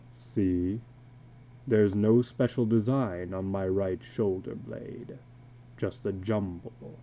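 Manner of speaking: a weary tattooed man confessing low; illustrated man. Acted. Tattooed man confiding to a stranger at dusk, low and weary.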